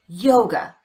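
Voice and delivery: "yoga" with strong "yo" and quick schwa "ga"; unstressed second syllable. Shown as a demonstration. Teacher shows the schwa in yoga, "yoga" stressed on "yo". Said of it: "The second syllable is unstressed".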